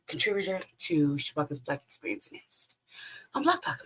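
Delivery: lost voice, rough and strained; hoarse voice. Real, not acted. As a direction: speak through a worn-out throat. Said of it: "Sorry, I lost my voice".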